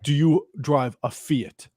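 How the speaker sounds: slow, deliberate imitation of an angry man; mock angry. Angry customer questions narrator slowly, mildly mock angry. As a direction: space out the question as if barely containing anger. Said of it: "he's already so mad".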